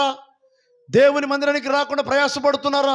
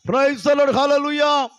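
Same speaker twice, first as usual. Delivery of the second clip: higher, louder praise the Lord; loud praise call; 4 semitones higher, much slower than usual. Real, not acted. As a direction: lift the congregation with a shout. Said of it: "గట్టిగా చెప్దాం". (గట్టిగా స్తుతి)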